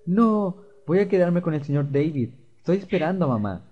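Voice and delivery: put-on a little boy digging in his heels; stubborn child voice. Fluffy refusing David's offer, lightly voiced stubborn child.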